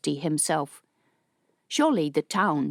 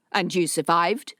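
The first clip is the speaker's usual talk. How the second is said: incredulous. Acted. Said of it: "his voice incredulous".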